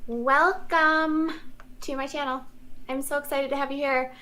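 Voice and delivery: fake sweet voice. Real, not acted. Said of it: "her fake little first minute voice".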